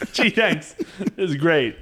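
dry sarcastic thanks. Pretend. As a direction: say it with fake gratitude. Mock customer reaction.

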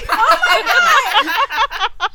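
very loud, high cry of disbelief; exasperated outburst. Real, not acted. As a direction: explode at losing yet again. Guess turns out wrong again.

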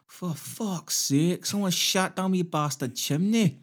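high, slow hammed-up Scottish rant; bad Scottish accent drifting Welsh. Podcaster ranting as the angry Scottish homeowner. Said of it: "I was going bordering Welsh".

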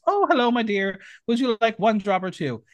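a hint of a prim Scottish nanny pouring tea; Mrs Doubtfire voice. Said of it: "It's a reference to the movie".

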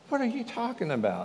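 high, quick "what are you talking about" in shock; a stunned question shot out high; astonished disbelief. Acted. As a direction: toss it back fast and incredulous. Disciples stunned by the stranger.

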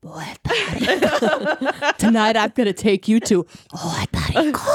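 a hint of Trump cooing to his wife; breathy Trump pillow talk. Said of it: "it's so breathy".

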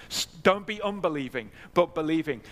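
firm, weighted "believing"; emphatic command. Retold or imitated. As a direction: press home "don't be unbelieving, but believing". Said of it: "just as emphatically".

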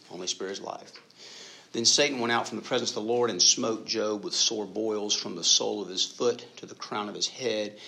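measured Bible reading aloud; scripture reading. Acted. Pastor reading Job chapter two to the congregation, steady and measured. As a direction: read the passage steady and clear.

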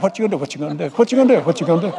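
two alternating chant voices, quick; tire duet. Acted. Two front tires nag the driver, alternating chant. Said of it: "joined in and they're doing a duet".

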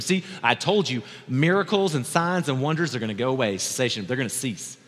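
lightly put-on Southern Baptist voice; a hint of Southern Baptist preacher; Southern Baptist lisp. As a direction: do a mild lisping Southern Baptist. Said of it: "like, a weird Southern Baptist list".

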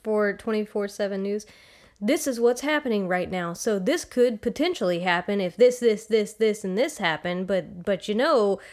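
lightly voiced TV news analyst; news anchor impression. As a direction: play a cable news anchor. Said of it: "our impression of all of the news".

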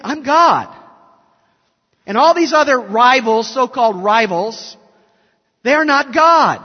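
loud and high, proclaiming as God; booming proclamation. Retold or imitated. Preacher voicing God's claim to the congregation, loud proclamation. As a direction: declare it like God thundering to rivals.

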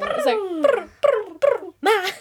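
imitated High School Musical rolled-r "brr" sound. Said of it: "What's that thing out of, like, High School Musical?".

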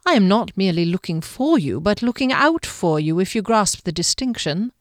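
lightly voiced, precise guardian; smooth guardian. Guardian explaining his care to the woman, smooth and formal. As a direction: draw the distinction politely, as the guardian.

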